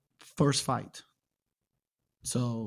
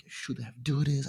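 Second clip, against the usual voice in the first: whispered self-pity. Retold or imitated. Injured fighter recalling his thoughts, whispering. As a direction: breathe it out like a private grievance.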